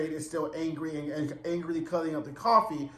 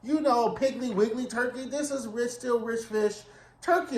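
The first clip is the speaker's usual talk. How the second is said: much higher, fussy hostess voice; imitating Joanne; 7 semitones higher than usual. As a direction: warn him off the turkey like a prissy host. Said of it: "Joanne's like".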